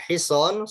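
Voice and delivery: hison with a long so vowel, slowly. Shown as a demonstration. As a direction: stretch the so in hison. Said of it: "soknya panjang".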